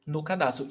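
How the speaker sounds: "No" barely heard before "cadarço"; unstressed "no". Shown as a demonstration. Teacher shows how the little word almost vanishes, "No" unstressed. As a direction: slip "No" quickly and lightly into "cadarço". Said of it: "You almost don't hear it".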